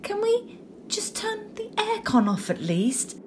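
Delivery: pleading whisper. Acted. Freezing class member pleading.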